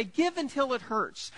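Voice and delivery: a mock sombre recital of the slogan; grim mock slogan. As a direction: lay it on like a dour old saying. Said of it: "Some people say".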